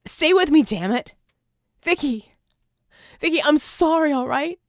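high, loud desperate shouting; frantic pleading. A narrator's reading. Red frantically shouting at Vicky under the shower, high and loud. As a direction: beg and yell her awake.

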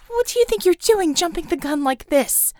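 high, loud exasperated yell; angry outburst. A narrator's reading. Woman yelling at the commissar, loud and high. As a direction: shout at her reckless partner.

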